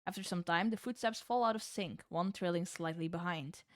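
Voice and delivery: measured storyteller narration; calm scene-setting read; story narration. A narrator's reading. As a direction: set the scene like a game master.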